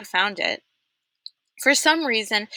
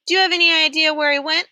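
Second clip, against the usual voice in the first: warden voice; 9 semitones higher, 4 dB louder, faster than usual. A narrator's reading. Warden presses Stanley.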